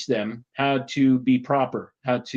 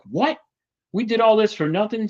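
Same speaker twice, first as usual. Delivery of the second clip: higher, indignant what, for nothing; upset disbelief; 8 semitones higher than usual. Retold or imitated. Kids cry out in upset disbelief. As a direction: kids protesting they did it all for nothing. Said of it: "really upset".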